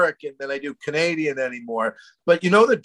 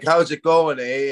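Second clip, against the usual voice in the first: lightly exaggerated Canadian greeting; Canadian accent; 3 semitones lower than usual. Comic showing his home talk, light Canadian accent. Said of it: "the Canadian".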